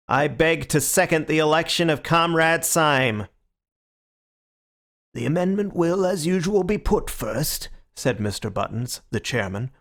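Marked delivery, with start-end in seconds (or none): 0.1-3.3 flat American drone; American monotone. Acted. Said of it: "in a high American monotone". 5.1-7.7 mechanical rapidity. Acted. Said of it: "with mechanical rapidity".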